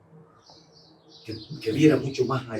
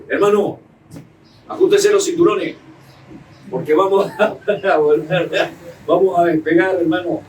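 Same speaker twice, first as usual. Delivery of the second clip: a touch higher and louder, mock old pastor rallying; old pastor's voice; 4 semitones higher, 5 dB louder than usual. Imitating his old pastor urging the congregation, lightly loud. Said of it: "tenía una voz así como la mía".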